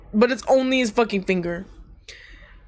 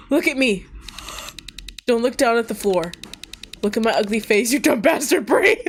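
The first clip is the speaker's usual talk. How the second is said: higher, insistent acted scolding; stern urging; 3 semitones higher than usual. Older worker to the injured kid, stern urging. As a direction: demand attention, climbing in pitch toward the end.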